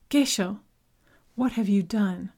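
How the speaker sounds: angry. Acted. Furious accusation.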